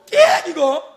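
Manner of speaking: a sharp scraping squeal; chair scrape noise. Retold or imitated. Mock scrape to the listeners. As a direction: imitate a metal chair screeching on concrete. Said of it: "긁는 소리 아시죠".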